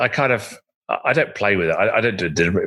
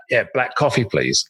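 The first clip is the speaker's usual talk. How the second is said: resonating voice; 3 semitones higher than usual. Retold or imitated. Ordering from the train buffet guy, resonating voice. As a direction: let the order ring out, dropping at the end. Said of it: "in a, in a very resonating voice".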